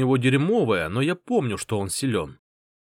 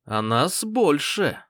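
menacing; 3 semitones higher, much slower than usual. Acted. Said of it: "угрожающе сказал он".

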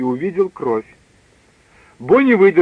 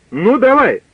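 higher, louder dare to shoot; defiant dare; 7 semitones higher, 5 dB louder than usual. Acted. Scott dares Hemingway to fire, loud challenge. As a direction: goad him, loud and high.

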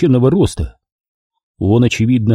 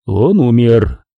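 cold announcement; much slower than usual. Acted. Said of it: "объявил Болон".

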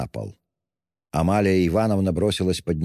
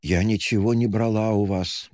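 plain reading voice

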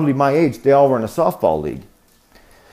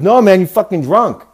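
insistent, higher-pitched mock English lad; English bloke impression, pitched up; English bro accent; 6 semitones higher, 4 dB louder than usual. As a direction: argue back like an English bro. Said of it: "broy dudes from, like, England".

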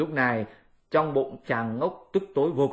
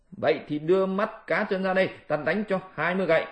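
threatening; 6 semitones higher, faster than usual. Acted. Monkey threatens twenty blows.

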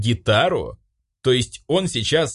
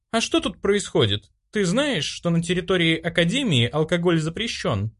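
higher prim female voice, reproachful; stern chairwoman; 9 semitones higher than usual. Acted. Disciplinary chairwoman reproaches the drinking boys, prim and stern. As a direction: scold the drinkers like a strict prefect.

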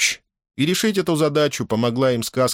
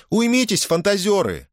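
calling out; 12 semitones higher than usual. A narrator's reading. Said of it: "попыталась вмешаться Эльза".

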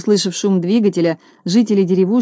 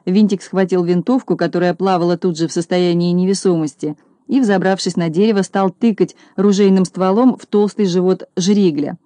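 ordinary delivery, nothing marked

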